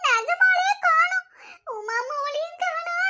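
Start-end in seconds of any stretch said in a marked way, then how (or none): 0.1-1.3 tearful plea. Acted. Mother pleads, child missing.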